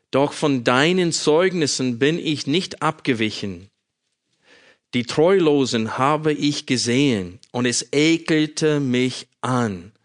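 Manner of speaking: measured, solemn psalm reading with pauses; scripture reading. Acted. Preacher reading the psalm to his congregation, solemn and measured. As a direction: read the psalm aloud to the congregation. Reads Psalm aloud before sermon.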